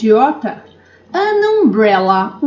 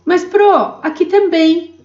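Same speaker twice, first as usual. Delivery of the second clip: lightly voiced puzzled student asking; a touch of a confused student; 5 semitones higher than usual. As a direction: question the teacher like a doubtful pupil. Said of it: "playing a questioning student". (leve voz de aluno confuso perguntando)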